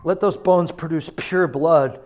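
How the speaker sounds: slow, deliberate praying; earnest prayer. Acted. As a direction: pray it out slowly over them. Prayer over congregation.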